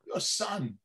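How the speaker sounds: halting Christopher Walken-style delivery; Walken impression. Actor doing impressions at the mic, Walken-style. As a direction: drop off into slow, odd phrasing. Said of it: "I did this whole walking".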